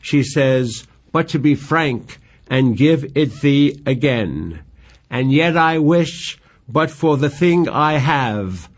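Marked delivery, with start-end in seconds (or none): 1.1-8.7 slow, measured verse recital; reciting Shakespeare with care; poem reading. Acted. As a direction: read the lines like a lover's plea. Reads Juliet's favorite lines.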